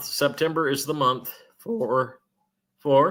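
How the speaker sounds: voice cracking mid-word on for. Speaker reports news from sources to listeners, voice breaking. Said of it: "Did my voice just break?".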